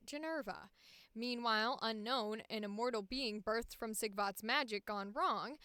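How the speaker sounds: lively story-trailer read; synopsis narration. Acted. Actor reading a fantasy project synopsis aloud, dramatic narration. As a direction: narrate it like a fantasy trailer, key words punched.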